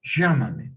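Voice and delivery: "Llámame" said "shamame". Shown as a demonstration. Teacher demoing substitution to class: "Llámame" as "shamame". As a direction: start "Llámame" with a sh sound. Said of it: "está cambiando la doble L por la Y".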